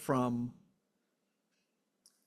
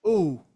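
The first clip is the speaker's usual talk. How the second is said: demo pain sound; 7 dB louder than usual. Shown as a demonstration. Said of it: "into language".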